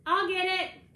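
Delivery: loud, high eager yell. A narrator's reading. Ben yelling to grab the phone first, loud and high. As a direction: shout it out as he rushes for the phone. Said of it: "Ben yells".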